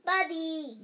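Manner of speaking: put-on loud excited toddler yell. A narrator's reading. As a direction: shout the name with glee. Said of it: "yelled the bean".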